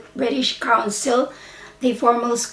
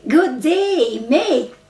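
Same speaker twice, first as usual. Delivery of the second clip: American good day mate; plain American take; American accent; 3 semitones higher, slower than usual. Shown as a demonstration. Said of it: "the Americans say".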